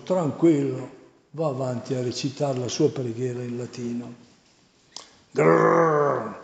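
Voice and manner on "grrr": demonic growl. A narrator's reading. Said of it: "sembra fare i gargarismi".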